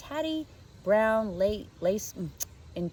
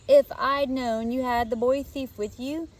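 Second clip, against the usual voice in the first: put-on smug little girl; 5 semitones higher, 5 dB louder than usual. A narrator's reading. Emma straightens, smug.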